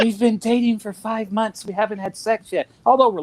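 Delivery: mock her whispery way of talking; whispery girlfriend voice. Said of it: "'Cause it's always like this".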